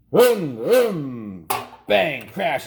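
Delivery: loud, high vroom then bang crash; crash noises. Acted. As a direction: act out the toy crash with noise. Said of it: "making noises with his mouth".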